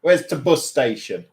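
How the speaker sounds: Yorkshire, shortening "the" to a bare t; clipped-article Yorkshire question; Yorkshire accent demo. Shown as a demonstration. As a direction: ask it in a demonstrated Yorkshire accent. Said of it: "Yorkshire's a bit like Cockney".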